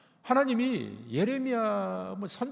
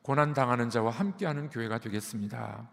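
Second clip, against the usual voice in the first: call and response; 5 semitones lower than usual. Real, not acted. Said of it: "우리 한번 따라해 보겠습니다".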